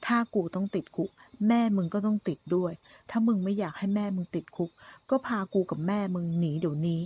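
slow, menacing sneer of a gunman; taunting villain. Acted. Gunman taunting the son about his mother, sneering menace. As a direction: lean on every insult like a cornered thug.

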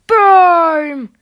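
loud, high boom; excited shout. Real, not acted. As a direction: yell it as the car smashes. Crash in game.

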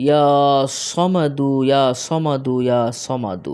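slow, drawn-out chanted Arabic recitation; slow Quranic recitation. Shown as a demonstration. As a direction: intone each name of God slowly and devoutly. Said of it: "আমি শুরুতে আরবিটা বলে দিচ্ছি".

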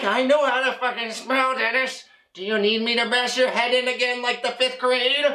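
exasperated comic threat, high but not shouted; acted angry outburst. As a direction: threaten your friend in mock anger. Acted quarrel with friend Dennis.

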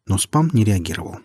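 ordinary delivery

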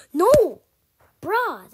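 high loud no; frustrated yell. Real, not acted. Kid failing a jump again, loud frustrated yell. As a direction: cry out at the fail.

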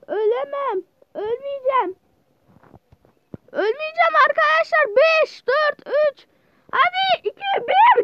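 high, loud rising countdown; tense countdown. Real, not acted. Gamer counting down the respawn, building excitement. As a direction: count it down with mounting tension.

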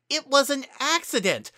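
high, loud protest; pleading shout. A narrator's reading. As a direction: insist it was an accident, loudly. Heated argument.

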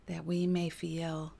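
quiet, measured prayer with long pauses; guided prayer meditation. Real, not acted. Healer asks that burdens become light, guided prayer. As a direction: let each phrase settle before the next.

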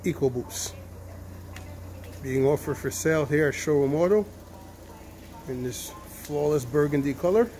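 muffled through a face mask. Real, not acted. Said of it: "Sorry if I sound muffled".

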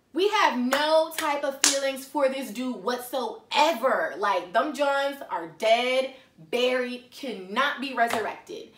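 loud, firm, drawn-out emphasis; emphatic inner reasoning. Retold or imitated. Logical side scolding herself about this dude, emphatic. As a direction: lay down the law to yourself, slowly. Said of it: "The logical side of me kicks in".

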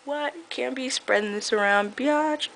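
high sassy imitation, rising to biatch; mock K-Stew. Imitating K-Stew hiding the secret, high sassy voice. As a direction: play her as a snotty starlet. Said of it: "she's all just like".

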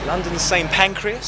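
a hint of posh British station announcing; mild posh British lilt on the place name. Shown as a demonstration. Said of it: "Saying that in such a British way".

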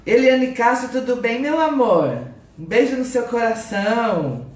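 high, bright hello to a viewer; cheery high live-stream greeting; sing-song greeting. Real, not acted.

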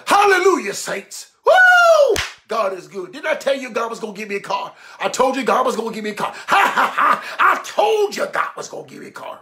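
imitating a worked-up church lady, whooping; high hallelujah, woo, quick boasting and cackles; theatrical testimony. Church lady boasts to the saints, with showy theatrics. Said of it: "She go through all this theatrics".

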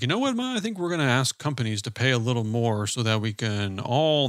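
smooth, reassuring banker pitch. Acted. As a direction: sell it like a polished banker. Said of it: "this is my banker vote".

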